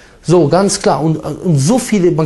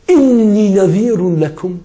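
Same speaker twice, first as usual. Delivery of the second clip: slow chanted Arabic warning; Quran recitation; 3 semitones higher, slower than usual. Acted. Prophet warning the Quraysh, chanted recitation. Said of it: "O ihr Volk von den Quraysh".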